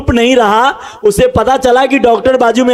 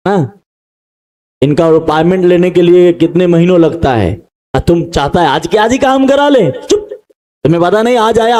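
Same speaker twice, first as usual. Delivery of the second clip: scolding crowd; 5 semitones lower than usual. Retold or imitated. Crowd scolding the blind man.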